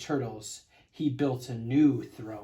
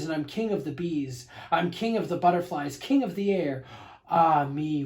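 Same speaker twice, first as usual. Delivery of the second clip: gloating king. Acted. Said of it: "Yertle boasts again".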